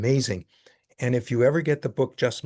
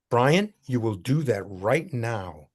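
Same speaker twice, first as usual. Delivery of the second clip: stern mother; slower than usual. Retold or imitated. Mother insisting.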